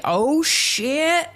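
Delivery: high startled curse; shocked outburst. Retold or imitated. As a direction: react to a TV twist. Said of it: "I was like".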